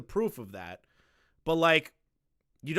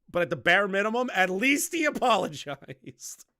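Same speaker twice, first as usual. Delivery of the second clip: mock praise, higher and louder, laughing; sarcastic; 5 semitones higher, 4 dB louder than usual. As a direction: say it sarcastically with a chuckle. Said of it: "I'm being sarcastic".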